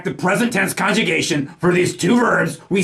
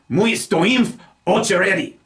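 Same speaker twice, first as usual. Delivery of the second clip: "stoim" stressed on its second syllable. Shown as a demonstration. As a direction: lean into the last syllable of "stoim". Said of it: "properly stressing the second syllable".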